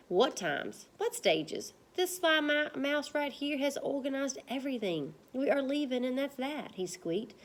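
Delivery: lively, voiced read-aloud; story reading to class. Teacher reading a chapter aloud to pupils, lively. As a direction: read it to the kids with character voices.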